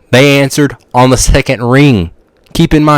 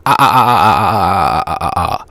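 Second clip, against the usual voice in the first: mock laughter; 5 semitones lower, 4 dB quieter than usual. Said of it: "I was laughing the whole time".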